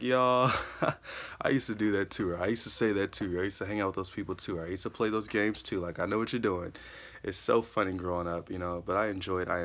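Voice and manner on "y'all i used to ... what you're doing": teasing younger siblings. Retold or imitated. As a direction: tease them like a big brother who has seen it all. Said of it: "It's just like".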